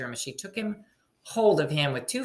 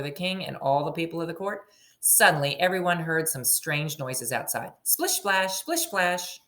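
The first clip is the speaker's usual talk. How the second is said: story narration. A narrator's reading. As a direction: read it like a picture book to a class. Teacher reading story aloud.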